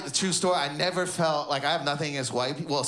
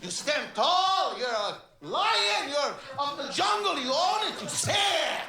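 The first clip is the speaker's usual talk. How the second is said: put-on passionate old Arab man; 9 semitones higher than usual. Old Arab man teaching name pride, passionate. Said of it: "old Arab men have that passion".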